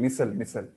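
मिसल said slowly and clearly, twice; careful pronunciation demo. Shown as a demonstration. Teacher drills the new word मिसल for students, slow and clear. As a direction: spell out मिसल as mi-sal for the class. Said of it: "उसको मिसल भी बोलते हैं".

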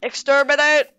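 staccato robotic monotone with stretched endings; Dalek voice. Pretend. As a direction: chant it like a menacing robot. Imitating Daleks from the game.

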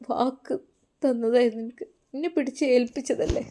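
soft, grieving father, lightly acted; understated choked-up regret; tearful father. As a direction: speak quietly through held-back tears. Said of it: "ഉപ്പ വിതുമ്പി കരയുകയാണ്".

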